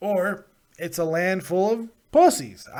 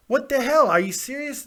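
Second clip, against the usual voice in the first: shocked; 9 semitones higher, 4 dB louder than usual. Real, not acted. Shocked outburst.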